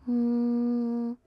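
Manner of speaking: steady monotone hum; buzzing hum. Real, not acted. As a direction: hold one even hum like a bee. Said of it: "That sounds like a bee buzzing".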